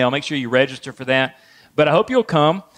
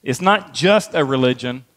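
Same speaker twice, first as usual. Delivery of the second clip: "just" picked out with extra stress; 3 semitones lower than usual. Shown as a demonstration. Preacher amending a common saying, stress on "just". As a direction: put the weight on "just". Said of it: "added the word just in there".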